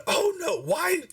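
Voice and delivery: high, distraught wail; upset town master. Acted. Town master sees what was done, high upset wail. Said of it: "he was, he's upset".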